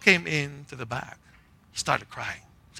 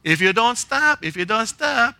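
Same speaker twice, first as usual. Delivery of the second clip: mock warning; 5 semitones higher than usual. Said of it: "Three warnings".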